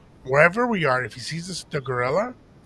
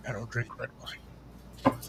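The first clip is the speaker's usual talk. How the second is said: breathy near-whisper, slower; hushed reply; 5 semitones lower, 12 dB quieter, much slower than usual. Retold or imitated. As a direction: drop it almost to a whisper, unhurried. Retold reply about red wine.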